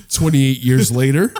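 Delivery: slow, low movie-trailer read; mock dramatic title. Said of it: "What the fuck was that?".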